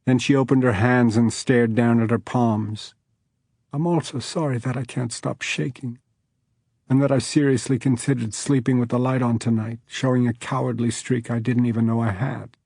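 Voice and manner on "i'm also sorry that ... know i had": tearful. Acted. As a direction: confess through tears. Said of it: "used both fists to wipe tears".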